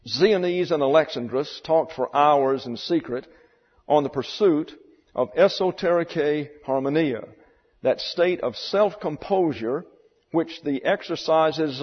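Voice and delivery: measured, emphatic reading from a novel; reading aloud. A narrator's reading. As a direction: read the passage out with weight and deliberate pauses. Reads book passage aloud.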